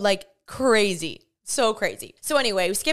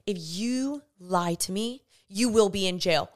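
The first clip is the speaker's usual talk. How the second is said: retold stern warning. Officer threatening her with jail.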